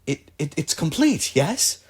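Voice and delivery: lightly voiced patron, pleased and impressed; delighted patron. Patron praising the clever inventor, lightly voiced delight. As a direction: praise your clever protégé with eager, halting questions.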